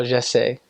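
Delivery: "je sais" with an open "zheh" first vowel; retold attempt at j'essaie, "eh" in "je sais"; French "I try". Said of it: "I try".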